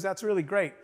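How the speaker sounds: offhand, matter-of-fact "really great"; understated reaction. Retold or imitated. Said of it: "That's all you have to say?".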